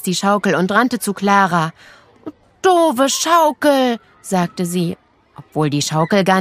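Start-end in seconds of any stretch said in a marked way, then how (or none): 2.6-4.0 put-on sulky girl voice. A narrator's reading. Nele scolds the swing.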